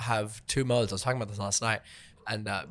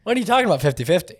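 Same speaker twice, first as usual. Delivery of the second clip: incredulous; 8 semitones higher, 7 dB louder, much faster than usual. Real, not acted. Disbelief at ranger's advice.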